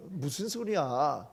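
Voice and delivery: incredulous scoff. Retold or imitated. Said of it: "어이가 없으니까".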